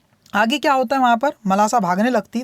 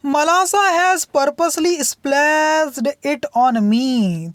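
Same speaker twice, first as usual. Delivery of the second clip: put-on complaining child; 3 semitones higher, much slower than usual. Girl complaining to her mother about Malasa, tattling. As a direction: tell on her sister, whiny and slow. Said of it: "तो अकुल क्या कहती थी".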